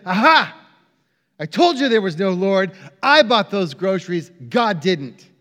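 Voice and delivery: a touch of triumphant gotcha; gloating neighbor. Retold or imitated. Atheist neighbor springing out to prove the lady wrong, mildly gloating. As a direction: pounce loudly on the first word, then make the point. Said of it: "the neighbor jumped up from behind a bush".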